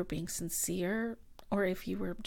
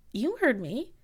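raised voice, firm and sharply pitched; angry demand; 5 dB louder than usual. Acted. Telling the ex to get out of the room, angry.

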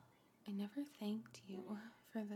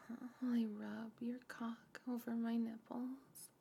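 normal talking voice

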